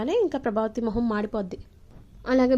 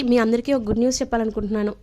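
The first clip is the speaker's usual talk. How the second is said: louder and faster, bursting with news; excited announcement; 5 dB louder, faster than usual. Retold or imitated. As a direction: rush out the good news. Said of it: "ఎక్సైటెడ్గా చెప్తూ ఉంటే".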